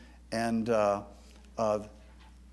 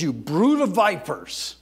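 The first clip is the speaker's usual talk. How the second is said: slowed, raised denunciation of the Pharisees; Jesus denouncing; 2 semitones higher, 7 dB louder than usual. Acted. Jesus rebuking the Pharisees, a firm slow denunciation. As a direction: start the rebuke firm and deliberate. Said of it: "Now, he says".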